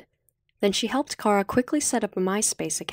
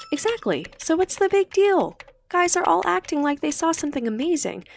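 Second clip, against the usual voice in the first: lightly voiced teen girl, higher, defiant; Cindy's defiant voice; 8 semitones higher than usual. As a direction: pitch up for a frank, defiant girl. Cindy voiced in chat scene.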